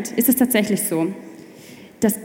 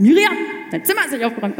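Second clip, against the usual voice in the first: quick nagging mother; a hint of a scolding mother; 3 semitones higher, much faster than usual. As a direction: rattle it off like a nagging mom. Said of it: "das sagt meine Mutter".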